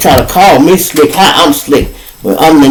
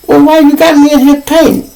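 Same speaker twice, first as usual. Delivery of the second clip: indignant retold question; 11 semitones higher than usual. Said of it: "confronting his friend".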